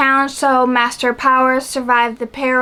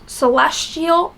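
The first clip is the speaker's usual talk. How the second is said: slow, careful word; 3 semitones higher, slower than usual. Real, not acted. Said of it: "that was so hard for me to say".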